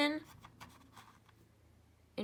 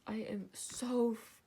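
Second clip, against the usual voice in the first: whispered aside. Real, not acted. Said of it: "sorry about my yawning".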